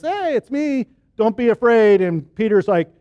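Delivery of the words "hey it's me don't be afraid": higher-pitched call to frightened friends; acted call, pitched up on the greeting; calling out reassurance. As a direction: call out to them with a raised pitch. Jesus calls to frightened disciples.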